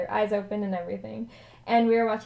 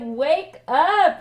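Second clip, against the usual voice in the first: loud, raised-pitch wake-up call; urgent mock shout; retold yell; 6 semitones higher, 7 dB louder than usual. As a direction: yell it to rouse a sleeper. Retelling alarmed kids waking a friend.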